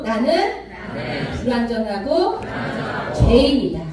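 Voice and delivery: slow, phrase by phrase with pauses; measured recitation for others to echo; call-and-repeat. Shown as a demonstration. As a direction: lead a congregation in repeating each phrase. Leading congregation to repeat phrases.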